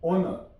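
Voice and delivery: ऑनर with no H and no final R; silent R. Shown as a demonstration. Teacher repeating honour for learners, silent R. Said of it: "यहाँ पे भी आर silent है".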